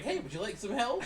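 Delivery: Clippy voice. Retold or imitated. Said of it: "It's like".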